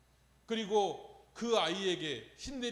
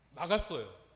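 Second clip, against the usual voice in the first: louder, proud 나갔어요 with a firm fall; triumphant declare; 3 semitones lower, 5 dB louder, slower than usual. Real, not acted. Preacher proclaiming the exorcism worked, triumphant declaration. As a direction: proclaim the victory.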